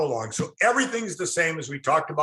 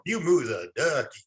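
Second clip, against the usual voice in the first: Texas drawl. Retold or imitated. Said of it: "Ducky was like three syllables".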